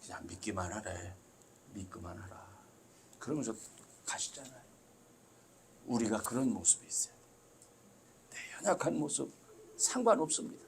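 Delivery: normal talking voice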